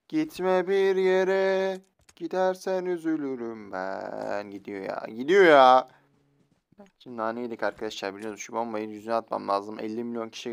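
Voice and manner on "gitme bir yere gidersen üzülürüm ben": mock plea. Mock pleading to fleeing enemy.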